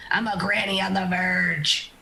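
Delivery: slow, stretched-out battle line; mild mock yell. Character to dying creature as last words, slow mock yell. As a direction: draw out each word as a mock cry. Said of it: "Uh, it yells".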